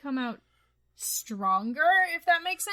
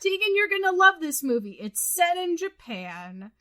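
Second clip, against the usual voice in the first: mock friends' sales pitch; 5 dB quieter than usual. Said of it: "my friends were like".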